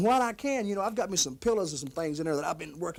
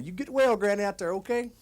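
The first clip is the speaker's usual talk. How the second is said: calling out warmly to Granny; 3 semitones higher, 5 dB louder than usual. Acted. Calls get-well message to Granny.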